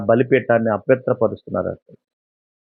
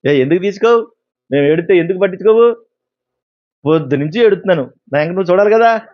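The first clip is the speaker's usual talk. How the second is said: higher, whining demand; the people complaining to God, higher and whiny; whiny complaint; 4 semitones higher than usual. Retold or imitated. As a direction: sulk at God like a spoiled child. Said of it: "అంటారంట వాళ్ళు".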